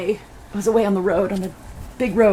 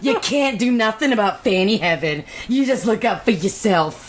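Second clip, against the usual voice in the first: higher, Scottish-tinged hillbilly auntie; playful mock hillbilly-Scottish accent; hillbilly read as Scottish brogue; 4 semitones higher than usual. Shown as a demonstration. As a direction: scold in a loose Scottish-Southern brogue. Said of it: "what I read it in is like this".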